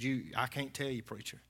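despairing. Retold or imitated. Friend confessing to preacher, soft despair. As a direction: let it die away in shame. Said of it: "He said".

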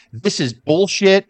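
a fan re-enacting Brett's furious promo, heated and rising; imitating an angry rant. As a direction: rant like a wrestler who's had enough. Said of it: "started cussing".

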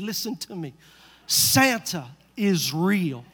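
slow, deliberate insistence; a hint of a stern wife laying it down; firm wife. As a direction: lay down the law, slowly.

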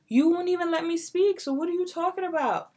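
loud exasperated retort; frustrated outburst. Retold or imitated. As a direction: snap back loud and fed up. Retold argument with mom.

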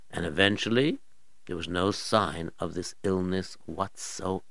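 ordinary delivery, nothing marked

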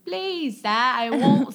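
high, badly faked British accent; shaky-grasp, joke British accent. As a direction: attempt a pleading British accent and botch it. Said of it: "the shitty one".

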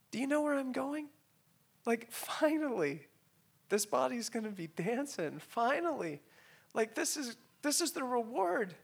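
high, choked-up testimony; real tearful voice. Real, not acted. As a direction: relay her hope through tears, high-pitched. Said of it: "forgive me if I tear up".

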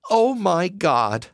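a poor mother seeing a food basket; gasped. Acted. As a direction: gasp it out in wonder. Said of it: "Missus Selby gasped".

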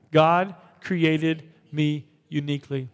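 "God created me uniquely" slow and even; slow recited affirmation; slow declaration. Shown as a demonstration. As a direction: lead it again, slowly. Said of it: "say this with me".

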